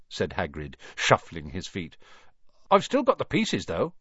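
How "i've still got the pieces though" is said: higher, perky add-on; cheerful, lifted voice; bright. A narrator's reading. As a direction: pipe up hopefully. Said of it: "he added brightly".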